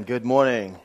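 fuller, brighter second greeting; livelier retry. Shown as a demonstration. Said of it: "Let's try that again".

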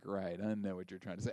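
humoring a pushy salesman, very quietly; low, quiet aside. Acted. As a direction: say it under your breath, dropping the pitch. Acted wary reply to the salesman.

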